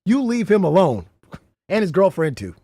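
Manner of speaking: half-joking telling-off; mock stern warning. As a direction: tell them off with a pointed finger. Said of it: "I said it".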